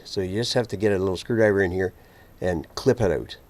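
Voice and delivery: talking while lying under a car. Real, not acted. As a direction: speak from flat on your back under a car. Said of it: "I'm under the car now".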